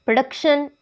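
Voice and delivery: "प्रोडक्शन" with the force on "डक्"; second-syllable stress. Shown as a demonstration. Teacher giving learners an example, "प्रोडक्शन" stressed on "डक्". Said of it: "इसमें भी second syllable पे है".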